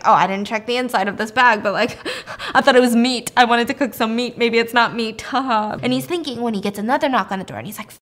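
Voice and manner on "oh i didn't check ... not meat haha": nervy laugh-it-off excuse with fake chuckles; feigned joking. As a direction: pretend it was all a joke, laughing between phrases. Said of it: "act like it was, like, a joke".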